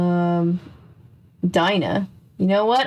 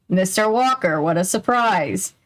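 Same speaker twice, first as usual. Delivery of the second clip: not surprised at all. Acted. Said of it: "who didn't sound surprised at all".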